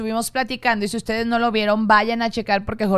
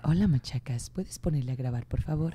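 low, soft and sultry; sensual voice; 9 semitones lower, 10 dB quieter than usual. Acted. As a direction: purr it seductively, lower and softer. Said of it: "lo tengo que decir con voz sensual".

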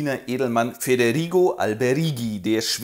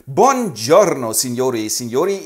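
Italian greeting; 5 dB louder than usual. Acted.

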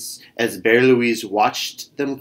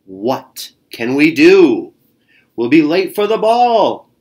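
worried; 3 semitones higher, 5 dB louder than usual. Acted. Stuck wagon, worried bear.

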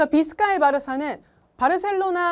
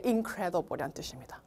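whisper; 6 semitones lower, 9 dB quieter, slower than usual. Real, not acted. Whispered aside.

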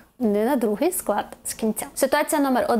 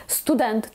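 стуДЕНТ, stress on the final syllable; Ukrainian-style stress. Shown as a demonstration. Teacher citing the Ukrainian habit, final-syllable stress. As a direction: land on ДЕНТ in "студент". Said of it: "як в українських словах".

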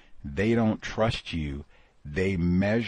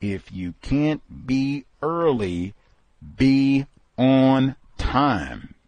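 slow advice; 3 semitones higher, much slower than usual. Retold or imitated. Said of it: "Gus T says".

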